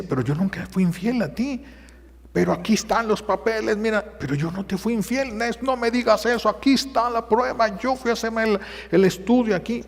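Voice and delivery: wife insisting to husband she was faithful; distraught plea. Retold or imitated. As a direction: plead your innocence, near tears. Wife defending herself, distraught.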